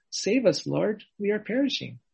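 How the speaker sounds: urgent plea. Retold or imitated. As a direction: call out to the Lord for saving. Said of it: "the cry is".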